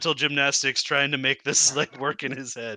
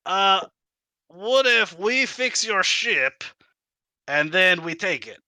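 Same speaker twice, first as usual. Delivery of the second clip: high, slow kobold squeak; 6 semitones higher, 3 dB louder than usual. Acted. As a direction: wheedle like a sly kobold. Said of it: "the kobold voice is contagious".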